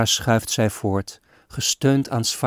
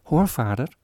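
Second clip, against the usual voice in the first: put-on child calling; 4 semitones higher than usual. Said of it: "riep zij".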